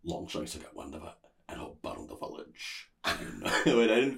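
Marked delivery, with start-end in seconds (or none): 0.0-2.9 attempted Scottish accent. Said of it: "this is the line that I practiced".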